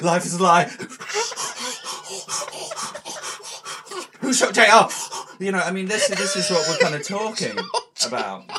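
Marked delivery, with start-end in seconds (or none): 0.0-4.9 panicked yell, much higher and louder; shouting. Retold or imitated. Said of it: "Why are you shouting".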